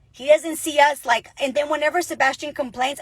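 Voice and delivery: usual speaking voice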